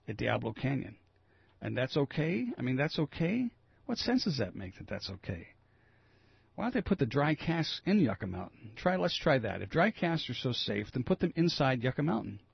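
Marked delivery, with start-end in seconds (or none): 1.6-5.5 incredulous. Real, not acted. Host scoffs at NRC head. 6.6-12.4 real indignant rant. Real, not acted. Host rants about dry casks.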